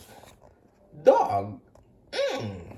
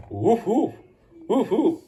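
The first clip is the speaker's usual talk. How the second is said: latido de cachorro; 5 dB louder than usual. Acted. Toy dog barks.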